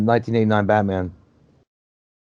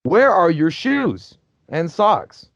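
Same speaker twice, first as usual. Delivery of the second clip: annoyed demand; 5 semitones higher, 4 dB louder, much slower than usual. Retold or imitated. Annoyed at barefoot character.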